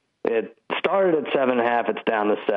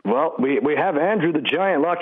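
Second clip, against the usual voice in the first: higher, pumped wrestling interviewer voice; Vince McMahon; 5 semitones higher than usual. Pretend. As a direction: hype it like a wrestling promo. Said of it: "you don't let Vince McMahon down like that. He's trying to interview you".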